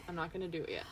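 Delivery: hushed reassurance; whispering. Real, not acted. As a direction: whisper it gently so she calms. Reassuring friend before waxing.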